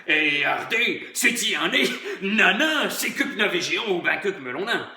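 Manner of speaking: put-on broad yokel accent, chuckling; country bumpkin accent. (accent paysan rustique)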